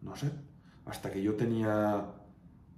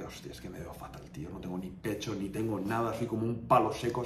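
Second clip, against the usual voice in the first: muttered inner thought; 2 semitones lower, 6 dB quieter than usual. Retold or imitated. Retold thought at the mirror.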